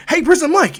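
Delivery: high, loud hail to someone; bright-pitched, loud call. Acted. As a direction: shout to get his attention. Calling the announcer through a portal.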